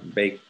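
BAKED ending in a clear T; final T sound. Shown as a demonstration. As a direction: finish Baked on a T, as one syllable. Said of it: "Con una T al final".

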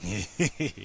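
low, soft chuckle; gloating low snicker; villain's laugh. A narrator's reading. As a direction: chuckle quietly over a fallen foe. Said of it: "Buford Tannen laughed".

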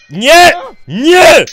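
two loud, high yells of dismay; explosive gamer despair; shouted no. Real, not acted. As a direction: yell each no separately, in protest. Things going wrong in fight.

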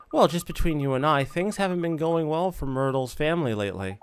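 lightly voiced old busybody; confiding gossipy neighbour. Neighbour confiding family troubles to the boy, lightly gossipy. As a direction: lean in and share the gossip.

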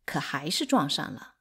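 usual speaking voice

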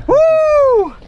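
high, loud joyful whoop; real victory whoop. Real, not acted. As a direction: let it all out. Celebrating personal best.

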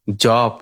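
"জব" with a rounded o vowel; local pronunciation. Shown as a demonstration. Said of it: "আমাদের দেশে জবই বলা হয়".

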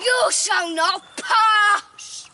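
Gandalf voice. Acted. Quoting Gandalf with the stick.

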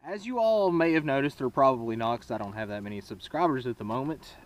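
muffled helmet mic; talking inside a helmet. Real, not acted. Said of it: "sorry I'm talking into my helmet".

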